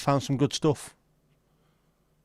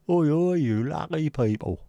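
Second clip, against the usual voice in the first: catchphrase greeting; 5 semitones higher than usual. Pretend.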